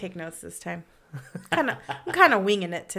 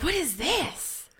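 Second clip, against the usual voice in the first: confused; 6 semitones higher, 4 dB quieter, slower than usual. Retold or imitated. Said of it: "I was like".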